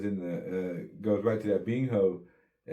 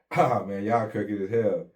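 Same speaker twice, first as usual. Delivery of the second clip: indignant protest; 2 semitones higher, 5 dB louder than usual. Retold or imitated. Uncle objecting as the cousin gets booked, indignant protest. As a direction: protest loudly on someone's behalf.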